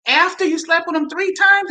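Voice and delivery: mock disbelief, pitch climbing toward the end; retold gasp of the appalled in-laws; shocked parents. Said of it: "and they did kinda like".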